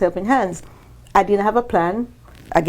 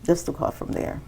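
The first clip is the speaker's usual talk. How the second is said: whispered echo; 2 semitones lower, 9 dB quieter than usual. Real, not acted. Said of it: "unvoiced repeat".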